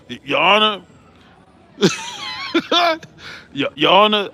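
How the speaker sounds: lightly voiced courtroom plea to the judge; a hint of Keefe D addressing the judge. Addressing the judge, a light Keefe D impression. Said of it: "In my Keefe D voice".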